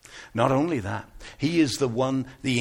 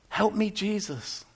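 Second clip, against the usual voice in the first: soft, slow, hushed prayer; quiet, drawn-out plea; subdued plea; 5 semitones higher, 5 dB quieter than usual. Acted. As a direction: say it slowly, softly, almost to yourself. Same plea repeated, now subdued.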